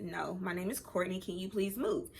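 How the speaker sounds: calm. Retold or imitated. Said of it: "talking like this, like, calm".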